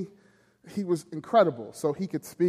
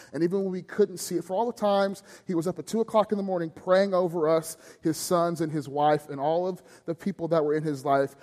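rising fervor; 3 semitones higher than usual. Real, not acted. Preacher builds emotional list.

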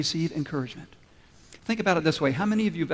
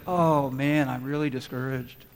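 deflated sigh of a line, dropping lower; understated, acted letdown; acted discouragement; 3 semitones lower, slower than usual. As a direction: sink down as if mildly defeated. Acts out feeling discouraged.

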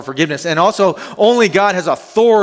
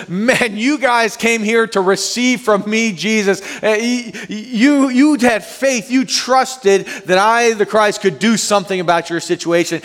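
warm, laughing Jesus voice, higher; voicing Jesus; 6 semitones higher than usual. Pastor voicing Jesus to the paralytic's friends, laughing and warm. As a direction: gently voice Jesus praising their faith.

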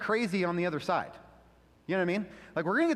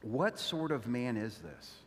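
awed hush; 7 semitones lower, 5 dB quieter, slower than usual. Retold or imitated. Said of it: "left asking this question".

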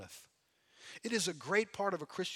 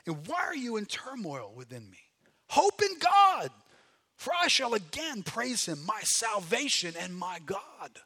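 psalm reading. Acted. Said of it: "Verse five".

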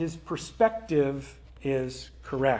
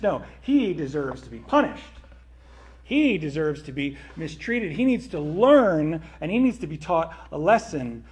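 indignant protest. Acted. Older son objecting to the party, indignant protest. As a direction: protest hotly that he must be punished.

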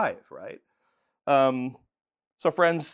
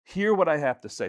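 mock stern God; 3 semitones higher, 5 dB louder than usual. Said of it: "I know he's saying".

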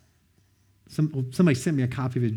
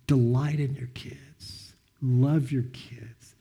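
gentle advice; much slower than usual. Retold or imitated. Mentor's gentle advice retold.

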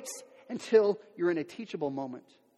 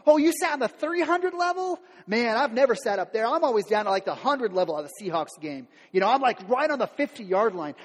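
mock one-upper; 3 semitones higher, 4 dB louder than usual. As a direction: show off your seat, smug. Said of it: "You're like".

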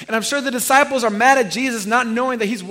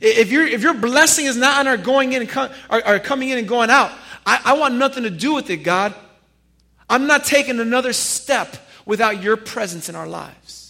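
pleading Moses; 2 semitones higher, 4 dB louder than usual. Acted. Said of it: "Moses is like".

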